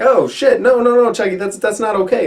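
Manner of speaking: high-pitched mock panic; alarmed protest. Frightened kids stopping Chucky's plan, mock alarm. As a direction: imitate kids frantically calling off the doll.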